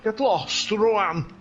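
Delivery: chatty Welsh race commentary; Welsh accent. Pretend. Commentator describing Phil's fight, Welsh accent. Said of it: "this is an accent I've been doing".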